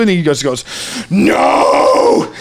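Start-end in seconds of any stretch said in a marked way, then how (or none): 1.1-2.3 sharp yelped refusal; mock yelled no. Cousin in a hammock refusing, yelped. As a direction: bark out a flat no.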